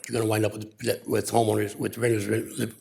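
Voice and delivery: nervous, stumbling over words; real jitters at the podium, tripping on words; stage fright. Real, not acted. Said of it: "I'm sorry, I'm nervous".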